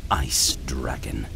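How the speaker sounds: ice dragon whispered slow and low; soldier's slow sneering whisper. Acted. Soldier taunts chained ice dragon.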